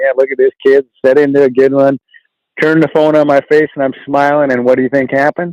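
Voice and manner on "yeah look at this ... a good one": plain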